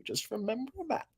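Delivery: unvoiced teasing whisper. Real, not acted. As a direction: breathe it to the chat. Whispered aside to chat.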